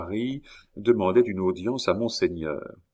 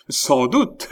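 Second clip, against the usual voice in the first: indignant cry; 6 semitones higher, 5 dB louder than usual. A narrator's reading. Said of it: "s'écria monsieur de Sartine".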